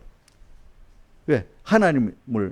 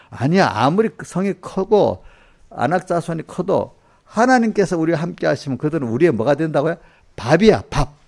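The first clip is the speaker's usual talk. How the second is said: bold defiance; 3 semitones higher, 3 dB louder than usual. Retold or imitated. Joshua and Caleb defy fear.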